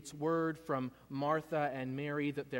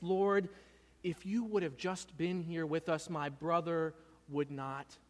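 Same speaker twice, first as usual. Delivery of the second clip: hurt; 2 semitones higher than usual. Acted. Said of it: "That's what she says".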